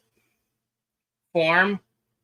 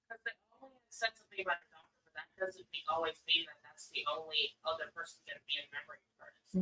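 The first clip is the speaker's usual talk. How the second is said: across the room; 18 dB quieter, faster than usual. Real, not acted. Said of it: "Nobody can hear you yelling across the room".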